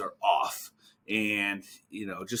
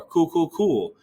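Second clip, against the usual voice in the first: a touch higher, breezy filler; filler habit; 6 semitones higher, 5 dB louder, slower than usual. Retold or imitated. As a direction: toss off the filler lightly. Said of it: "that one thing that they do".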